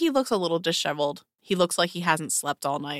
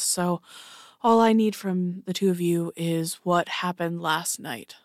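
weary captain voice. Acted.

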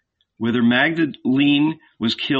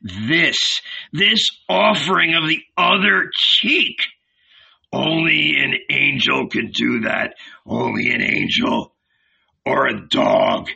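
awestruck; 3 semitones higher than usual. A narrator's reading. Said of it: "he shouted to himself".

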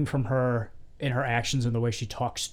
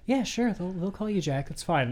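high mock operator; 6 semitones higher than usual. Voicing the sex line operator.

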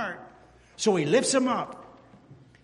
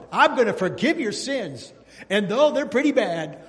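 laughing; 3 semitones higher, 7 dB louder than usual. Acted. Preacher voicing God, laughing.

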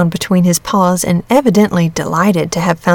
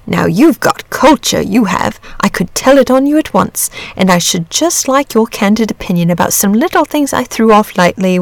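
lightly voiced dragon, lively swings in pitch; a hint of a leisurely, talkative dragon telling its story; easygoing chatty dragon; 3 semitones higher than usual. Dragon flatters the boy.

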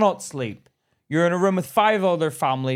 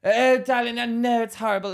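mock patronizing nurse; 8 semitones higher than usual. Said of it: "sounded like she was taking the piss".

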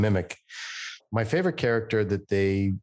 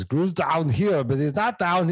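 Gru voice; 7 semitones higher, slower than usual. Shown as a demonstration. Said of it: "you gotta find Gru".

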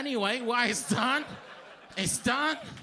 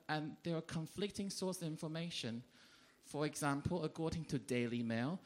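much lower, softer conspiratorial voice; hushed aside; 6 semitones lower, 7 dB quieter than usual. Pretend. Comic whispering about touchy test question, hushed conspiratorial. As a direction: drop it low like a secret. Comic drops voice for controversial topic.

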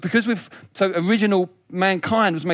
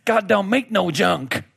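put-on slow, drawn-out American preacher accent; slower than usual. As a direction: lightly imitate a Southern American preacher. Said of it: "in a wonderful American preachy accent".

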